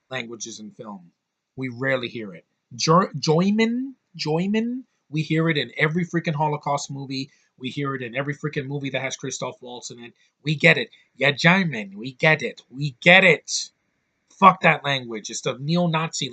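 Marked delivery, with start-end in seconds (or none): 2.7-4.8 mock German accent. Mocking German pronunciation. 10.4-13.7 mock German. Mocking German pronunciation.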